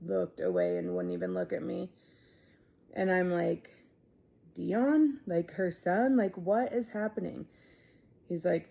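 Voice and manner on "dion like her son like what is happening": higher, urgent retold panic; frantic guessing. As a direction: rattle off names in rising alarm. Frantic guessing who died.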